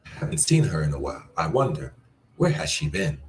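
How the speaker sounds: puzzled rising where; wondering inflection. Shown as a demonstration. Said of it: "Try that one".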